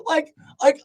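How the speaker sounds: high, loud exclaim as it all clicks; life-changing shock, loud; amazed outburst. Retold or imitated. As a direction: belt out the revelation. Retelling his eyes being fixed.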